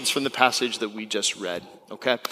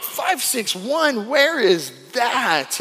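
puzzled; 7 semitones higher, much slower than usual. Retold or imitated. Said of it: "And so I'm like".

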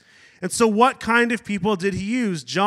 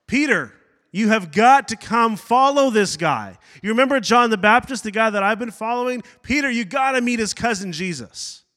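excited brother; 4 semitones higher, 3 dB louder than usual. Retold or imitated. Andrew running to his brother.

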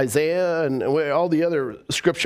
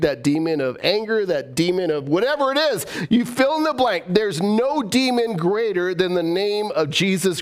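fiery preaching; 2 semitones higher than usual. Acted. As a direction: preach it out with fervor. Preaching at full force.

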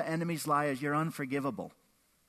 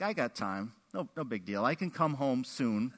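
put-on unbothered kid; 6 semitones lower, 4 dB quieter than usual. Acted unbothered child answering mom.

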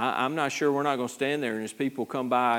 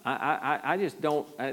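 normal talking voice

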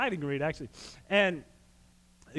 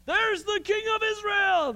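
higher, ringing call of the chariot commanders; shouted; 3 dB louder than usual. Retold or imitated. Commanders spotting the robed king, shouting. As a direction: call it out across the battlefield. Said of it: "they shouted".

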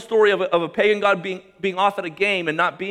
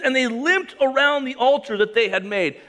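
raised, emphatic reading of the line; lively reading; 6 semitones higher than usual. Shown as a demonstration. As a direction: read it with vivid energy. Scripture read twice, first take.

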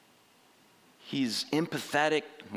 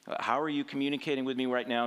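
voicing Cain; 3 semitones higher, faster than usual. Cain voiced questioning God.

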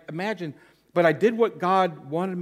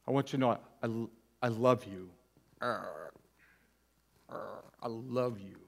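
tearful apology; 4 semitones lower, 4 dB quieter than usual. Retold or imitated. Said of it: "I'm starting to weep".

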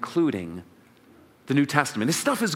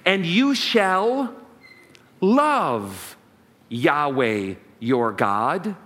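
solemn reading; much slower than usual. Shown as a demonstration. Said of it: "hear these next words".

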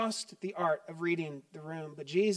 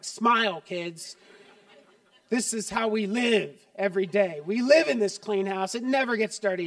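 louder, bright fake cheer through a laugh; mock perfect host; 2 semitones higher, 4 dB louder than usual. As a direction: play the perfect family for the guests, hammed up. Host faking a perfect home.

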